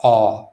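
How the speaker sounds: aw from the back, mouth wide open; isolated back vowel aw; jaw-dropped AW. Shown as a demonstration. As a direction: demonstrate a long open aw. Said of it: "drop your jaw all the way down".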